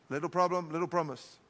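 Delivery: low, soft and diminished; small, quiet delivery. Shown as a demonstration. Preacher teaching how promise matches the problem, small quiet delivery. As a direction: make "little" sound small, dropping pitch and volume. Contrasts little with big.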